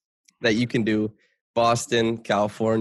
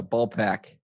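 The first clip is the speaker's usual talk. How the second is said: Boston accent. Shown as a demonstration. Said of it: "my go-to is".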